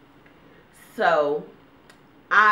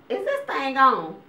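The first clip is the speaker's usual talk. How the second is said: higher, slow nagging about the drip; impatient mom; 7 semitones higher, 4 dB louder than usual. Retold or imitated. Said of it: "sitting over there going".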